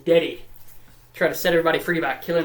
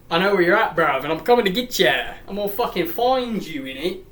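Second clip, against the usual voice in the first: exaggerated British slang voice; mock British accent. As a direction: play him as a mock-British lad. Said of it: "He's not actually British".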